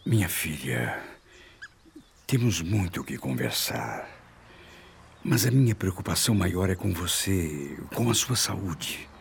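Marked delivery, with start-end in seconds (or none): 0.0-7.8 tender comfort. Acted. Father comforts his fragile daughter.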